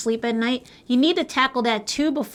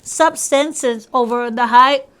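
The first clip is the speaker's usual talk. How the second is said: put-on Jamaican accent; 6 dB louder, slower than usual. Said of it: "We tried our best with my Jamaican accent".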